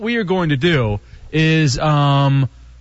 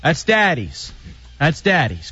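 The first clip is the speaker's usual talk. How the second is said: put-on talking to a baby; slower than usual. Shown as a demonstration. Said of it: "Like you're a baby".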